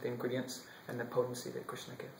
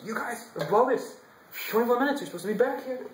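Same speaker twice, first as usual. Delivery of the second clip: higher, louder reprimand; king's exasperated scolding of his late servants; yelling; 9 semitones higher, 8 dB louder than usual. Acted. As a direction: tell them off loudly, higher. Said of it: "yelling at his servants".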